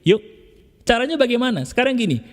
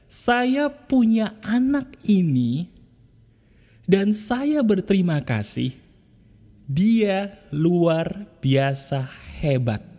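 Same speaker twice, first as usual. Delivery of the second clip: tender affirmation again; much slower than usual. Shown as a demonstration. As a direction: repeat it slowly with more lift. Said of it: "Sentuh lagi, ayo". (ucapan syukur pelan dengan nada naik)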